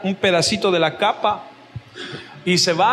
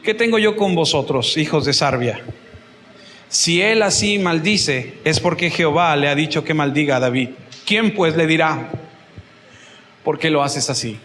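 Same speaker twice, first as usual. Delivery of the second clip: solemn king; 6 semitones lower than usual. Retold or imitated. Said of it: "Y respondió el rey".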